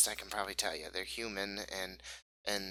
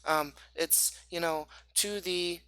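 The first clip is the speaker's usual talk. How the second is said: put-on high-pitched child passing on a secret; eager young boy Pip; 8 semitones higher than usual. Game master plays Pip, a boy.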